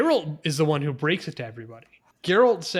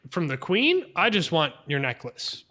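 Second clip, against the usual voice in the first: mock-flattering sarcasm with a slightly raised pitch; sarcastic. Retelling a character asking for a necklace, lightly sarcastic. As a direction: lay the sarcasm on lightly, playing up the praise. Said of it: "Which is sarcasm".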